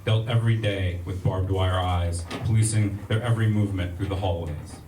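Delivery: measured spoken-word poetry reading; poem reading. Acted. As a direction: read it like a spoken word poet. Reads a poem aloud.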